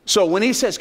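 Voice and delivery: usual speaking voice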